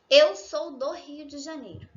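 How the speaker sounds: "Eu sou do Rio de Janeiro" en portugués brasileño, más fuerte; Portuguese pronunciation. Shown as a demonstration. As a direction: di "do Rio" con la r inicial como jota suave. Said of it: "Quando a gente usa o sou". (portugués de Brasil, claro y marcado)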